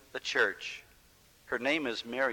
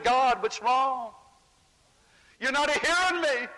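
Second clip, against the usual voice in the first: troubled plea; 11 semitones higher, 4 dB louder than usual. Acted. Moses' prayer unanswered, troubled.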